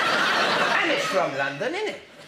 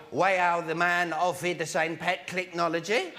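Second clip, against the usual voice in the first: low-pitched comic Geordie; mock Geordie accent; 4 semitones lower than usual. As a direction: send up a Newcastle accent. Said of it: "they speak in Geordie".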